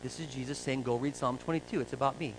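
quiet, detached scholarly pronouncement; cool and antiseptic. Retold or imitated. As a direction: imitate a cool, clinical scholar. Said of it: "say very coolly and antiseptically".

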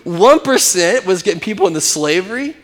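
incredulous thought. Retold or imitated. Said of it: "And then I thought".

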